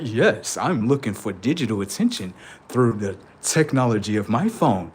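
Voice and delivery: low, flat robotic monotone. Retold or imitated. Comedian mocking a phone-addicted robot, low robotic drone. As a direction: talk like a machine. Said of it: "If a robot was like".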